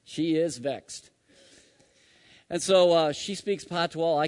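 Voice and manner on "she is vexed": slow, each word set apart; savoring the islanders' expression "vexed"; local phrasing. Shown as a demonstration. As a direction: lay out "She is vexed" slowly, like the locals' saying. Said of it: "That's how they'd say it down there".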